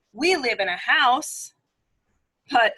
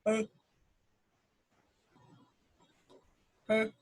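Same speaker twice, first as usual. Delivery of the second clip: bullfrog call; 6 dB quieter than usual. Retold or imitated. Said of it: "that sound like this".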